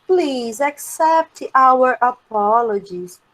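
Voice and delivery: slow, careful formal apology. Shown as a demonstration. Teacher reading a formal apology example, slow and formal. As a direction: spell out a polite apology slowly. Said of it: "De uma maneira mais formal".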